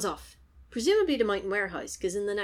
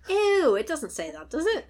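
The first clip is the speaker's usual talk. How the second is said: appalled disgust; 8 semitones higher, 6 dB louder than usual. Real, not acted. Mock disgust at American satnav wording.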